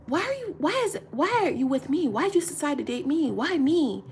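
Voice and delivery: high, whiny mock of an insecure man; mocking whiny boyfriend. Woman mocking an insecure boyfriend, high whiny voice. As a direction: imitate a needy guy begging for reassurance.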